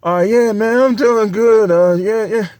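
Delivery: mock superhero holding back; fake nice greeting. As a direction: act casual while eyeing the pork chops. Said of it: "Mister Superhero".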